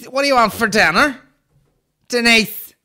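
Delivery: high, loud shopper calling out; local shopper. Acted. Shopper in Lidl asks Denise about dinner, calling out. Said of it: "somebody walking around, you know, like".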